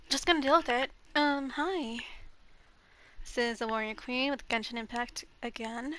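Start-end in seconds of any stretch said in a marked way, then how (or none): 3.2-6.0 blocked nose voice; congested. Real, not acted. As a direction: talk through a stuffy nose. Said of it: "I'm a little congested today".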